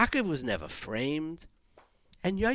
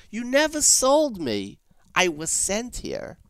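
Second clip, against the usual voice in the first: emphatic; 6 semitones higher, 3 dB louder than usual. Acted. Yosef's declaration, building.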